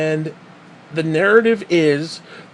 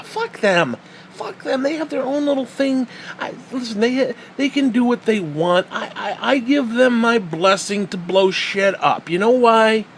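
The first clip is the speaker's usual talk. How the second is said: higher-pitched sarcastic rant, half laughing; 5 semitones higher than usual. Real, not acted. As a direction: give mock blessing with a laugh creeping in. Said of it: "I'm saying it sarcastically".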